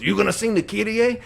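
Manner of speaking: a playful Filipino priest impression, with a laugh; Filipino accent. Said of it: "he had a very strong accent".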